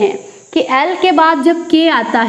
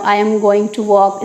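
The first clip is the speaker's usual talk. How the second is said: I am going to walk, said very slowly and evenly; slow, careful example sentence; 5 semitones lower, much slower than usual. Shown as a demonstration. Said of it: "इस type से बोलते हैं".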